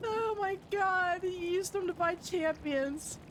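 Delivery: recovering from a real laughing fit; laughed to tears. Real, not acted. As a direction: groan it, worn out from laughter. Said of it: "I'm in tears".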